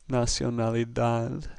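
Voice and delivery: nacionalidad said slowly, last syllable "dad" stressed; stress on final DAD. Shown as a demonstration. Teacher showing where emphasis falls, stress on DAD. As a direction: draw out the closing "dad" in nacionalidad. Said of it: "That's where the emphasis is, on the dad".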